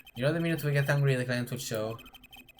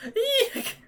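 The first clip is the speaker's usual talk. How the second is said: a squeal of fright, much higher; high startled shriek. Acted. Lawyer startled when client suddenly appears, shrieking. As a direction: squeak in surprise.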